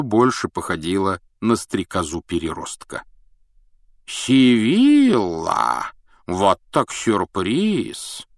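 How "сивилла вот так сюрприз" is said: slow, drawn-out surprised cry; surprised exclamation. Acted. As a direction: stretch the name in delighted surprise. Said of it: "воскликнул Дамблдор".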